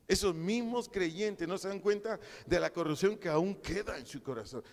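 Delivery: preached with rising force; emphatic repeat. Shown as a demonstration. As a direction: drive it home to the congregation. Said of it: "repeated louder".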